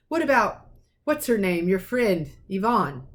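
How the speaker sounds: aunt snapping at her husband; snapped. Acted. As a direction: bite the words off, impatient. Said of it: "snapped Aunt Petunia".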